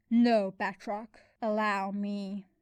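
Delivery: slow, measured villainous calm; a slow cold command to her ally; menacing assassin. Acted. Demon assassin speaks slowly.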